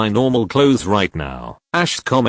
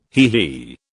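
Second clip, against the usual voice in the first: sly giggle; 5 semitones lower than usual. A narrator's reading. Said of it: "the man laughed".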